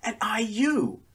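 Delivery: put-on high voice, German accent. A narrator's reading. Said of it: "replied the man in a German accent".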